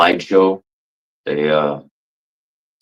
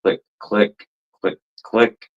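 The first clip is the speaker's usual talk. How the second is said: imitated clicking; 3 semitones higher than usual. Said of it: "it was like".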